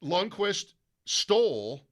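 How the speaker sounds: a touch of Ben Wright's outrage; mock indignant rant. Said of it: "he's pissed about it".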